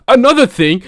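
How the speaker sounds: hammed-up Australian accent; bad Australian accent. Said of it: "such a bad impression of ... an Australian accent".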